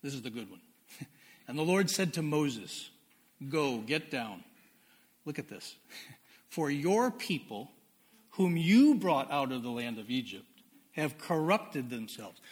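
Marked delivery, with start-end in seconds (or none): 1.5-12.4 scripture reading. Acted. Preacher reading Exodus aloud to his church, emphatic scripture voice. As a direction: proclaim the verse to the congregation.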